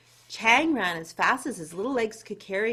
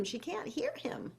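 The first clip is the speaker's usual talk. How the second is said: whispered aside; 5 semitones higher, 11 dB quieter than usual. A narrator's reading. Aside to listening children.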